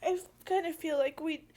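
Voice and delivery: holding back sobs; crying. Real, not acted. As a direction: voice tight with tears. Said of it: "I'm sorry I'm crying".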